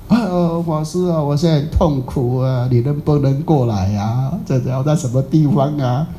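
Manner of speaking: slow, drawn-out pained plea; suffering caller. Retold or imitated. Sick man begging the master to come, suffering. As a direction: moan it out as if in misery. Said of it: "他说，哎，他很痛苦啊".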